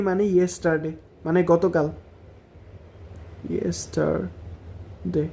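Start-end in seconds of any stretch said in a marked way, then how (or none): 3.5-5.3 slow drill. Shown as a demonstration. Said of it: "drilling the word slowly".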